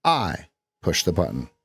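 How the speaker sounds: I punched, falling tune; stress on I. Shown as a demonstration. Coach shows stress on I. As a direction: hit the I. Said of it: "we could put an emphasis on any syllable".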